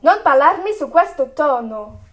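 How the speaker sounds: sharp, loud scolding; angry scolding. Acted. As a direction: put her in her place. Mother scolds defiant daughter.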